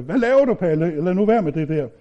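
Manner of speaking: a mild mock call, as if from the kitchen; retold mom calling out. Mom calling from the kitchen to stop her son, mild mock call. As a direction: start the call with a burst, then ease off. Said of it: "min mor, hun råbte ude i køkkenet".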